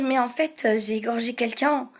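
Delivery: soft, matter-of-fact confession, acted; cold psychopath. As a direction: confess coolly, as if it were normal. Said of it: "Donc, j'ai été froide".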